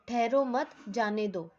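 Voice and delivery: "ठहरो मत" as one unit, pause, then "जाने दो"; pause after मत. Shown as a demonstration. Teacher showing pupils how a pause changes meaning, pause after मत. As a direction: break after मत, letting जाने दो fall. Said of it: "के बाद एक पॉज लिया".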